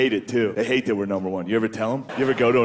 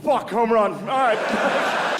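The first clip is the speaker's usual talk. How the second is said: high-pitched vintage play-by-play call; old-time announcer; 9 semitones higher, slower than usual. Acted. Comic calling a home run at the ballgame, announcer voice.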